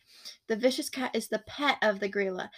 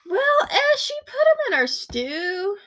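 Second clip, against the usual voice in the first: high mock voice; 11 semitones higher, 6 dB louder than usual. Mock voice of giantess.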